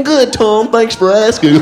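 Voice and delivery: a hint of a stiff white man; mock white guy voice. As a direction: answer like a polite square. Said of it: "black comics have you heard in your lifetime go".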